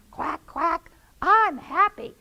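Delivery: very high, loud squawky duck; happy duck. Acted. Duck arriving happily at the dinner. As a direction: quack out your joy high.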